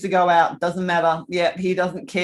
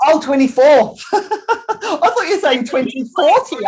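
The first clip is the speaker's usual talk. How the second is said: laughing at her own mix-up, higher; 8 semitones higher, 5 dB louder than usual. Real, not acted. Teacher laughing at misheard temperature, laughing. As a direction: giggle through the realisation.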